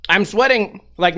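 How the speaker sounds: ordinary talk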